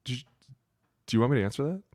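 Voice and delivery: high, disdainful mock question; incredulous coach. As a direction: dismiss the dumb question like a coach. Coach answering dumb question.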